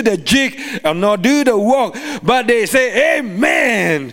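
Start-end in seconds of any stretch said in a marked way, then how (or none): 3.2-4.1 imitated drawn-out amen of excited worshippers; excited congregation's amen. Preacher showing his congregation how excited churches respond, imitated excited amen. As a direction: play a fired-up churchgoer's long amen. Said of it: "when they get really, really, really excited".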